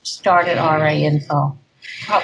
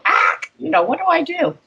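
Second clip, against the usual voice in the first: mock helpless therapist; 11 semitones higher than usual. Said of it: "the therapist would get too".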